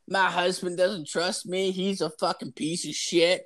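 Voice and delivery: sending up a TV guest's grievance; lightly mocking whiny voice; mock whiny wife. Mocking a girl on TV.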